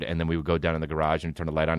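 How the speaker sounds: ordinary talk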